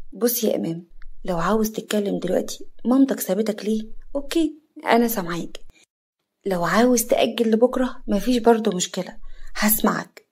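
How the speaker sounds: soft reassuring voice; gentle comfort. Acted. Yara softly reassuring the drunk Imam. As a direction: coax him kindly to open up.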